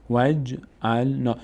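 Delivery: slow وج ال نا, "waj... 'al... na"; silent connecting alef. Shown as a demonstration. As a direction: repeat وج ال نا syllable by syllable for learners. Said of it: "الف وصل خوانده نمیشه".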